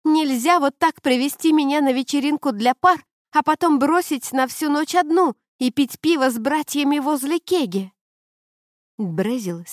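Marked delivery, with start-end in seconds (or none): 0.0-7.9 loud, high angry rant; furious girlfriend shouting her complaint. A narrator's reading. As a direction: keep yelling the whole grievance. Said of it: "кричала она".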